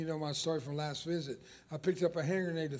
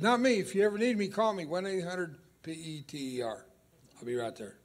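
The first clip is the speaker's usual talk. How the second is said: cocky boast. Acted. Boastful Peter voiced by preacher.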